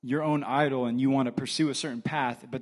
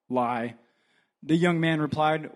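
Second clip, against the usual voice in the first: usual speaking voice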